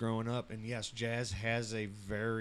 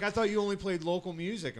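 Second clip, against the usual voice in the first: puzzled listener; 9 semitones higher, faster than usual. Retold or imitated. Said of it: "they're like".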